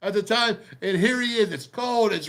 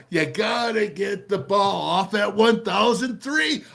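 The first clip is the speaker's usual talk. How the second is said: urgent shout; 2 semitones higher, slower than usual. Real, not acted. Coach urging quick snap timing.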